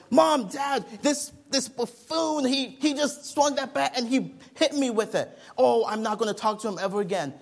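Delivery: put-on shouted childish outrage at the buffoon; outraged kid complaint. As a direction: wail to Mom and Dad like a hurt, furious kid. Child complaining to parents after injury.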